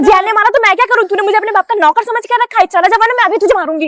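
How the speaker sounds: put-on fast, irritated Doraemon telling the kid off; snappy attitude. Doraemon snaps at the whiny kid with attitude. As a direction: brush him off with sass. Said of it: "इस नीले गुब्बारे के अंदर तो बहुत ही attitude".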